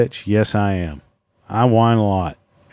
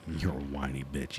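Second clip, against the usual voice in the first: much softer, lower, limp reading of the insult; weak mock insult; 8 semitones lower, 17 dB quieter than usual. Quoting a listener's insult, limp and mocking. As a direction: read the insult as if it bores you. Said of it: "that's weak".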